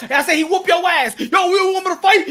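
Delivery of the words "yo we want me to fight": mock furious shout. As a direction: square up and shout it. Wilder ready to fight.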